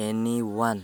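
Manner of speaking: anyone said slowly as EN-ee-wun; careful English pronunciation. Shown as a demonstration. Teacher slowly modelling anyone for Bengali learners, careful pronunciation. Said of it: "এর উচ্চারণ হচ্ছে".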